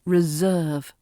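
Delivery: "Reserve" said re-ZERVE, with a buzzing z. Shown as a demonstration. Teacher repeating the word, S voiced as Z. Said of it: "That S sounds like a Z".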